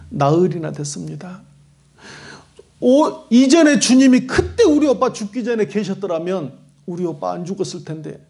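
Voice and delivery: weeping Martha. Acted. Martha to Jesus at the village edge, tearful pleading. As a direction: lament to the Lord, voice fading by the end. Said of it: "막 우는 거예요".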